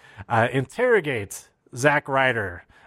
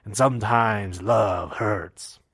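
slow, menacing mock whisper of love; lightly voiced villainess, slowed down; mock villain line; 3 semitones lower, slower than usual. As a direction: she leans down to a fallen Sami and taunts him. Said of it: "she leans down to him and says".

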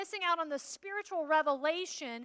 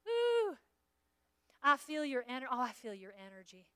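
mock a spacey empath; new-age mockery; 5 dB quieter than usual. Preacher mocking empaths, soft dreamy new-age voice. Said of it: "Empathy is".

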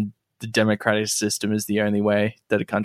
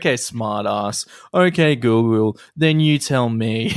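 condescending; slower than usual. Pretend. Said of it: "sounds really condescending".

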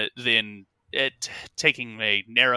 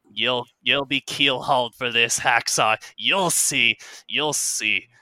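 grumbling captain; slower than usual. Acted. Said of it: "the captain grumbling".

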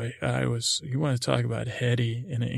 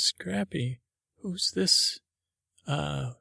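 Daphne's voice; 3 semitones higher, slower than usual. Acted. Daphne sees the nutcracker.

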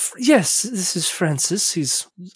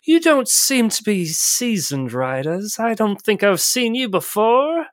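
snooty jockey voice; 4 semitones higher than usual. Acted. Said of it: "and he's like".

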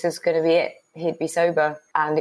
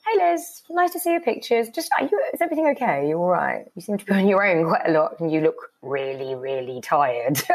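concerned friends voiced. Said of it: "And a few people said".

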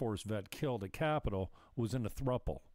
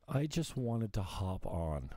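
slow whiny mimic of her; mocking imitation; slower than usual. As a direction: parrot her words back, sneering. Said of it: "if I hear that one more fucking time".

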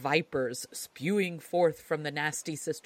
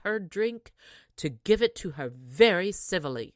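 louder, bossy mother voice; eager mother; 6 dB louder than usual. Acted. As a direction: order her favourite daughter about. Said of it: "cried the mother".

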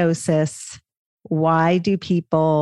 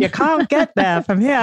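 hammed-up Boston accent, higher, no r in there and here; 7 semitones higher than usual. Host redoing the skit line for her guest: a playful broad Boston accent. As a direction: redo the Saturday Night Live line as a broad, higher-pitched Boston accent. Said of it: "we gotta work on your Boston accent".

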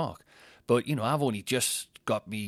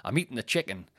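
mouth full; 3 semitones higher than usual. Real, not acted. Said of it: "with a mouthful of chicken".

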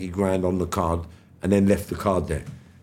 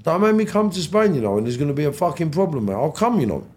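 mock threat; 6 semitones higher than usual. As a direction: play the hard man, hammed up. Mock threat to dealer retold.

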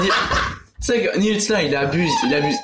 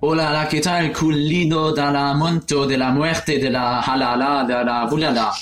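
fake Spanish. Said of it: "Essaye de parler espagnol".

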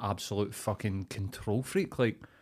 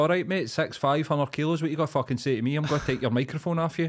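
higher, squaring up to someone; mock confrontation; 5 semitones higher, 4 dB louder, faster than usual. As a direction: play-act cocky street challenge. Imagines confronting the protester.

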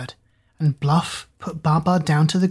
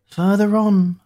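higher, louder call, leaning on "on"; 4 semitones higher, 4 dB louder, slower than usual. Acted. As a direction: call "Further on" ahead, landing on "on". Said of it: "cried Hoodoo".

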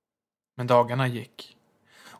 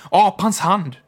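excited shriek; 7 semitones higher, 10 dB louder, slower than usual. A narrator's reading. Wife keeps shrieking.

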